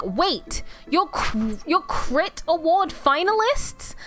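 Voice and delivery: mock-shocked question, drawn out on the last words; retold incredulous yell. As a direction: imitate friends' disbelief, pitch climbing at the end. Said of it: "They yelled and screamed at me".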